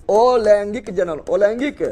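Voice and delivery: अलैंगिक जनन spoken slowly in separated parts; measured dictation of अलैंगिक जनन; slow term drill. Shown as a demonstration. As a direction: draw out अलैंगिक जनन for pupils to catch. Repeating the new term for pupils.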